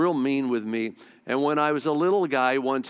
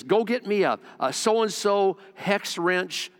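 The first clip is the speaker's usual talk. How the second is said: higher-pitched imitation of a frustrated order; mildly frustrated dad; 5 semitones higher than usual. Dad working on a truck sends his son for a tool, mildly frustrated. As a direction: lightly mimic an irritated father's demand. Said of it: "he was frustrated".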